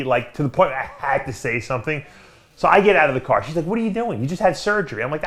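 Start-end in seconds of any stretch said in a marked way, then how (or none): 3.7-5.0 higher-pitched imitation of an alarmed girlfriend; mock scolding in a raised pitch; retold scolding. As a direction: quote her telling him off. Girlfriend scolds him, retold quarrel.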